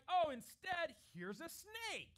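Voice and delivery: loud, falsely bright dad offering a snake; mock cheerful offer. Dad pretending to hand his hungry child a snake, mock cheerful. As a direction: ham up the ridiculous swap.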